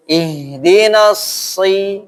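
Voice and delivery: ihdinas si said too heavy, as the wrong example. Shown as a demonstration. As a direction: demonstrate si the wrong way, slowly. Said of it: "Bukan gini ya".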